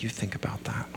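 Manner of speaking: hushed, whispered aside; Gary impression. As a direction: drop to a whisper, imitating someone's catchphrase. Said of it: "I almost did a Gary".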